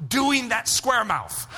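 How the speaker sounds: slow, firm mock mother; stern mom. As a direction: lay down the law slowly. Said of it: "and my mom said".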